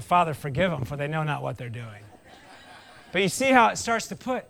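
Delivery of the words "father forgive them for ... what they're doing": pious prayer. Retold or imitated. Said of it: "if Jeremy was really spiritual".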